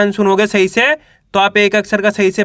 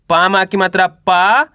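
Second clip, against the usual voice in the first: slow, syllable by syllable; teacher sounding out each letter; slow syllable reading; slower than usual. Shown as a demonstration. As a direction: spell it out slowly for a child. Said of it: "दो दो करके पढ़ना है".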